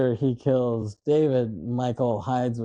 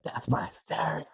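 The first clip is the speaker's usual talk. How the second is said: quoting a famous movie line, higher and softer; mock action-hero line; movie one-liner; 4 semitones higher, 7 dB quieter than usual. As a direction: deliver a catchphrase in a lighter, put-on voice. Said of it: "he says the infamous line".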